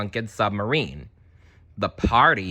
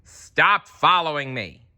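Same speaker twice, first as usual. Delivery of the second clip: puzzled Dory; 7 semitones higher, 4 dB louder, slower than usual. Acted. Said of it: "turned around and said".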